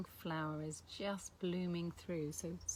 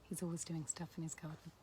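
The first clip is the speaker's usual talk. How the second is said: whispered aside; 6 dB quieter than usual. Retold or imitated. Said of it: "I'm carrying on going".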